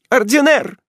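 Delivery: high, loud cry of his name. Acted. Ethel on her knees crying out to silent Ordener, high and loud. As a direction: call out to him in anguish. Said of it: "вскричала она".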